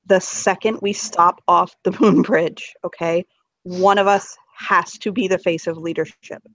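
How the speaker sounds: serious talk. Acted. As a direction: lay it out seriously, taking your time. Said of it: "I'm gonna actually talk seriously for a second".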